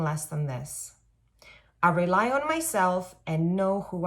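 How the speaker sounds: firm, clear reading of an affirmation; affirmation read aloud. Shown as a demonstration. Vlogger reads her affirmation to viewers, firm and clear. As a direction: speak it like a promise to yourself. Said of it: "this is what you can say to yourself".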